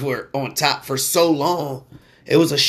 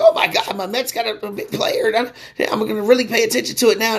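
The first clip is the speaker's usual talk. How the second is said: mock excitement; 8 semitones higher than usual. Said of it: "I was like".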